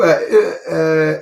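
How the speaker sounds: ordinary talk, nothing marked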